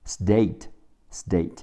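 "state" with the first t voiced to d. Shown as a demonstration. Teacher shows voicing after s, "state" said as "sdate". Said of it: "在这儿浊化变成的".

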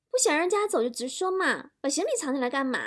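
cutesy whine with a pout; coquettish wife. Acted. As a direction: play a wife sweetly complaining to her husband. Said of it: "老婆撒娇的说".

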